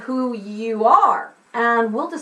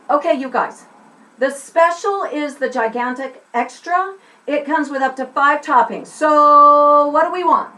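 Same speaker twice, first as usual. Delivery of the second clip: calling to group; 3 semitones higher, 4 dB louder than usual. Shown as a demonstration. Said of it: "So I'm gonna start here".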